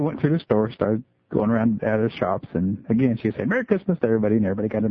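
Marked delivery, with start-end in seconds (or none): 3.5-4.0 put-on high, sing-song child greeting; little girl voice. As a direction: chirp it like a cheerful four-year-old.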